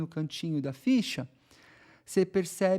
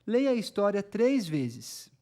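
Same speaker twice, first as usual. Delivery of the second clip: reading the instruction aloud; 3 semitones higher, slower than usual. Shown as a demonstration. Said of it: "eu vou ler pra vocês a instrução".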